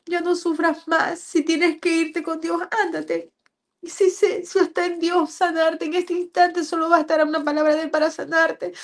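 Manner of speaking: high, sustained pleading voice; tearful letting go. Retold or imitated. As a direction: give a dying child permission to go, near tears. Mother retells releasing her dying daughter.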